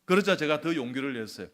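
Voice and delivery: ordinary delivery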